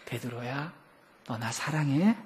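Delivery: soft, tender asking; gentle Jesus. Retold or imitated. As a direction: ask softly, without reproach. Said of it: "혼내키는 게 아니에요". (부드럽고 다정하게)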